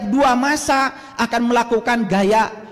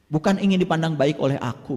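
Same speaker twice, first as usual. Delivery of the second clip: a lower, softer, solemn voice for God; voicing God's words; 10 semitones lower, 3 dB quieter than usual. Preacher voices Allah's words to the congregation, low and solemn. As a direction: speak as the divine, low and hushed. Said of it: "kata Allah".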